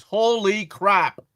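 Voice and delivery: loud, slow, high amazement; surprised exclamation. Real, not acted. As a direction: blurt it out, amazed. Reacting to the book listing.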